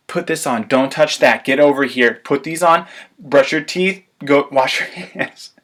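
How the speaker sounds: bossy parent reeling off commands; busy parent snapping out orders; rapid-fire parent demands. Retold or imitated.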